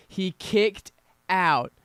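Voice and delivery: loud, slow, drawn-out call of a near fall; excited shout. Real, not acted. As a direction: belt it out as the pin breaks.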